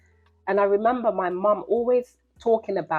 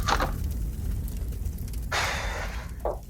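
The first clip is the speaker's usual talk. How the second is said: long breathy sigh of heat; overheated sigh; 4 dB quieter than usual. Real, not acted. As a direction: blow out the heat. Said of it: "Let me fan myself".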